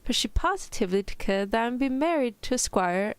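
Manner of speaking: badly faked British reading; mock-British storybook voice; attempted British accent. Shown as a demonstration. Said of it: "in your best British accent".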